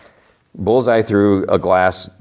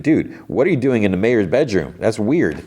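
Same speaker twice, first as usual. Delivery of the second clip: mock surprise, a bit higher; retold puzzled challenge; surprised; 3 semitones higher than usual. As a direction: act mildly taken aback. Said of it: "he's, like, surprised she's there".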